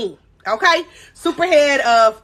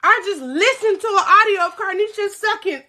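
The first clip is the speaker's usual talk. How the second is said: mock boo-hoo crying; 5 semitones higher than usual. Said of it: "He called my mama boo-hoo crying".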